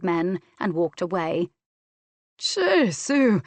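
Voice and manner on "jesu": higher, louder awed exclamation; admiring. A narrator's reading. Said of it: "Jock Bruce said admiringly".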